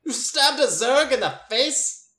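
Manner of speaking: high, slow, incredulous question; amazed disbelief. Acted. Cousin gasps at Imogen's Zerg story, incredulous. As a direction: stretch it out in wide-eyed shock.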